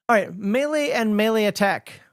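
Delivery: "melee" in a Minnesotan accent. Real, not acted. Host reads out the "melee" rule in Minnesotan accent. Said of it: "I use a Minnesotan accent".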